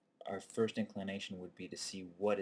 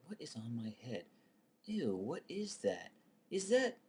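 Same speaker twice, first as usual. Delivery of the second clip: phobic panic; 4 semitones higher than usual. Retold or imitated. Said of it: "internal dialogue".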